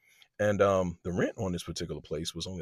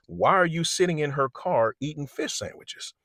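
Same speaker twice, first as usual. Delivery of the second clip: high, loud retold confrontation; incredulous challenge; 8 semitones higher, 5 dB louder than usual. Mother questioning men eating in the car, incredulous. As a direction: play the mother challenging a flimsy excuse.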